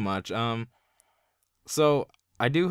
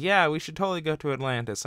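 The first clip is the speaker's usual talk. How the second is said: put-on childish Aquaman voice; 3 semitones higher, faster than usual. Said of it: "that's how he talks".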